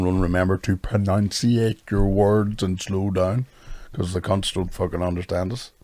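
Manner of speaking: slowed down, words spelled out clearly; over-pronounce every word, slowly; slow and careful. Retold or imitated. Comic reminding himself before the gig, slow careful diction. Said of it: "So I had to shout out".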